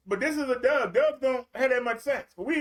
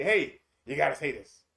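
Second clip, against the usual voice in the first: low, hushed demonic whisper-like voice; 8 semitones lower than usual. Retold or imitated. The demonic voice in your head urging you, low and sly. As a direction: lower the voice like a devil tempting. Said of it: "A demonic voice in your head says".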